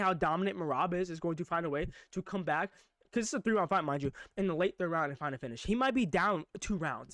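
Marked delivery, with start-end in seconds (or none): 5.6-7.1 he might be down two rounds, drawn out slowly; measured and deliberate; slow, weighty. Shown as a demonstration. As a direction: lean on "be", slowly. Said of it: "This might even happen".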